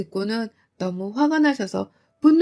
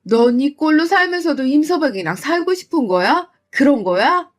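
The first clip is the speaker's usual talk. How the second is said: raised, exasperated mother's scolding; louder mom demanding answers; 4 semitones higher, 6 dB louder than usual. Acted. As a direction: push her to admit it, louder.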